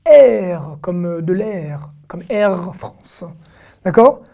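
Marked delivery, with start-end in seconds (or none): 0.1-3.2 R français étiré, bien articulé. Shown as a demonstration. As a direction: montrer lentement le son R français. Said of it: "nous n'avions pas vu le son R". (R français bien allongé)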